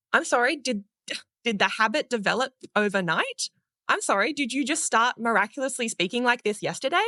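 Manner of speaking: teasing rhetorical challenge; mock incredulous. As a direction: playfully call them out, pitch climbing to the answer. Mock questioning of an impatient listener.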